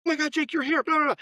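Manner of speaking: gushing welcome. Retold or imitated. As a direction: gush over the new hire like a thrilled friend. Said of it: "She's like".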